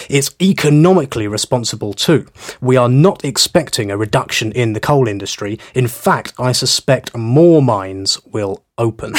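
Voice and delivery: a light mock Australian voice, barely put on; half-hearted Australian politician, stressing responsible; silly Australian voice. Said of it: "in his great big silly Australian voice".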